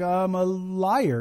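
slow, drawn-out mock confession; reluctant admission. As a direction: drag it out like a sheepish student admitting guilt. Student reluctantly admits lying.

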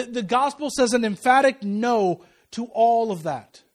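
loud, slow declaration; emphatic preaching. Real, not acted. Preacher declaring the gospel's answer to suffering, emphatic. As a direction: drive the refusal home.

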